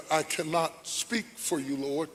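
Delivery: a hint of Moses, softly pleading, the voice trailing away; quiet, hesitant plea, slowing to a near halt at the end. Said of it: "because Moses said".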